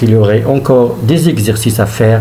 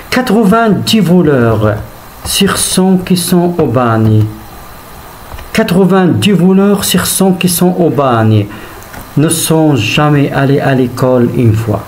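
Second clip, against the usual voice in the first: poem recitation. Acted. Teacher reads a Hugo poem to pupils, measured recitation. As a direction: recite line by line, stretching each phrase and letting it fall. Rereads poem lines to explain.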